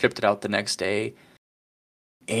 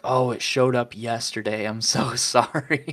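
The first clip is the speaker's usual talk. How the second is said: drawn-out imitated "so sorry"; mock-sheepish, lingering apology; retold apology. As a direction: play up the apology, stretching the end. Retold buyer's sheepish apology text.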